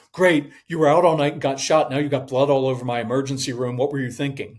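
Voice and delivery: hammed-up angry ER doctor; freaking-out doctor. ER doctor yelling at a patient, mock angry.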